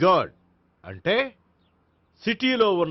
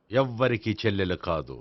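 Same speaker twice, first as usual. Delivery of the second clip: slow, deliberate realization; 7 semitones lower, 5 dB quieter than usual. Acted. Realization after questioning the woman.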